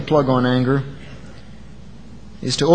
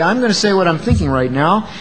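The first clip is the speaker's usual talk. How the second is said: unkind tone; 2 semitones higher, 3 dB louder than usual. Shown as a demonstration. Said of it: "Or your tone can say".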